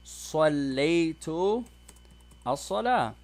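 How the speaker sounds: slow, deliberate example answer; slow model answer. Shown as a demonstration. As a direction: lay each word out for the class. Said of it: "he's gonna say".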